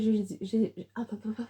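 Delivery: tripping over the first word; stumble, then break off with quick hops; real stammer. Real, not acted. Vlogger fluffs her make-up explanation on camera, stammering. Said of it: "je bégaye".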